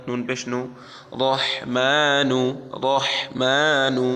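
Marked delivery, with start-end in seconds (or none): 1.2-4.1 very slow, louder রহমানু with a full heavy R; slow chanted Quranic reading of রহমানু; drawn-out recitation. Shown as a demonstration. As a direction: stretch রহমানু out syllable by syllable, R thick. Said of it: "পড়তে থাকুন".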